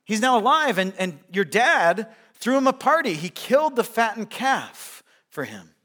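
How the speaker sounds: loud, high urgent servant's report; excited servant. Retold or imitated. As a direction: blurt the news to the older brother. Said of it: "He says".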